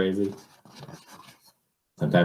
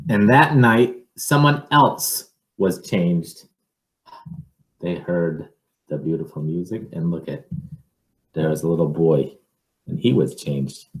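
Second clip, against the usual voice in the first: picture book reading; 4 dB louder than usual. Acted. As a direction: draw it out for the child. Reads picture book aloud.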